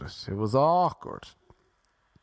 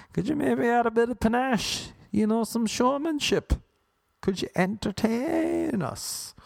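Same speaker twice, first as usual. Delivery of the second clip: chirpy radio host; 10 semitones higher than usual. Retold or imitated.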